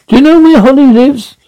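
anxious and high-pitched; urgent. Acted. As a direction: press for the answer, worried. Urgent question, sudden high pitch.

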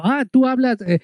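put-on Spanish lightly tinged with a Chinese accent; halting, mildly accented imitation of a Chinese shopkeeper; imitated Chinese accent. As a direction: mimic a Chinese speaker feeling for the Spanish words. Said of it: "así con ese acento, con esa forma de decirlo".

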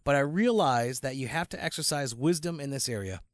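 measured email read-out; reading aloud. Acted. Cohost reading a listener's email on air, measured. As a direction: read the letter out evenly and formally.

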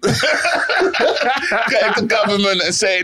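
mock protest. Mocking friend lobbying government.

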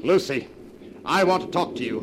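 tense, high and insistent; stern confrontation. Acted. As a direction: confront her forcefully. Confronting wife on the cliff.

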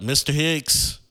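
imitated waiting-room summons; calling out. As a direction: call a patient from across the lobby. Nurse calls patient's name in lobby.

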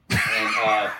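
ordinary delivery

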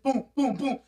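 spoken booms of a charging beast; imitated stampede thuds; pounding rhinoceros footsteps. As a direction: boom out heavy, evenly spaced stomps. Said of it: "rhinoceros just come pounding toward me".

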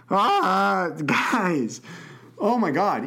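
high, shocked nervous laughter. Real, not acted. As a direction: laugh out of sheer alarm. Freaking out after shocking question.

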